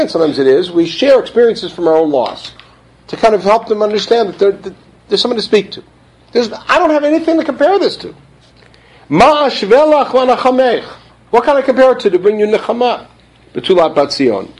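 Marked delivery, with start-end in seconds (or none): 6.3-13.1 helpless grief. Acted. Voicing the comforter's helplessness.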